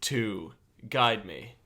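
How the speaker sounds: slow, stately request with long pauses; grand character voice. Acted. Player asks Opalia to be guide, slow stately character voice. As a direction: speak formally, phrase by phrase. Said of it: "developed this whole character".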